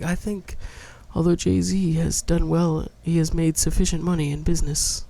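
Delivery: lightly voiced, measured radio pundit; slow, careful mock-intellectual delivery; NPR host. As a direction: parody a public-radio commentator. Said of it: "talk like that".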